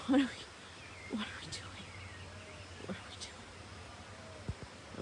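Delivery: dissolving into breathless laughter; words fading out into a helpless laugh. Real, not acted. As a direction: laugh so hard the voice gives out. Laughing at the animals' antics.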